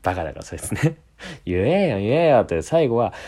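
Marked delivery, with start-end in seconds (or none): 1.5-2.4 insistent mock demand. 友達がしつこく迫る.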